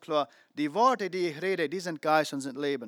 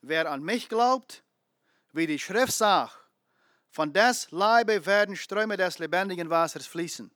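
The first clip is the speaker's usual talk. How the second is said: slow, louder verse reading; slow, weighty reread; 3 dB louder than usual. Shown as a demonstration. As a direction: dwell on each word of the verse. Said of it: "Weil das Vers auf eine gewollte Wahrheit bin".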